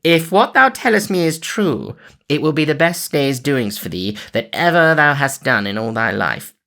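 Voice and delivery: cried out. A narrator's reading. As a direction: exult loudly. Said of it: "cried he".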